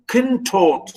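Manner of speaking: contort with weak con, strong drawn-out TORT; stress on second syllable. Shown as a demonstration. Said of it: "you know, stress".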